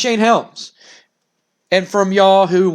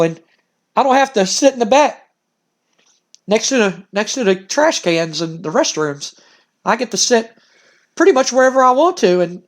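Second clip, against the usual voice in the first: a touch higher, proud and eager; eager wrestler; 3 semitones higher than usual. Acted. Winner telling the interviewer about his new life, mildly gushing. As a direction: gush a little about the perks.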